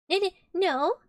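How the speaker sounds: stumbling attempt to sound casual; careless denial. A narrator's reading. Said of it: "said Pooh carelessly".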